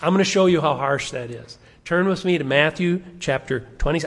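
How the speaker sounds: ordinary talk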